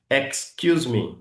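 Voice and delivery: very slow, each sound separated; carefully articulated. Shown as a demonstration. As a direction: model it slowly for learners. (articulation lente et soignée)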